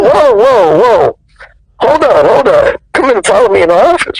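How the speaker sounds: high, hurried "hold on" plea; imitated urgent calling back. Director calls the departing actor back, urgent. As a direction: act out stopping someone who is leaving.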